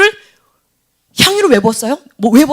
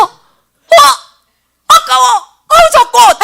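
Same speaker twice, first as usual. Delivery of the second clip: put-on regretful kid; 10 semitones higher, 4 dB louder, much slower than usual. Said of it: "할까?".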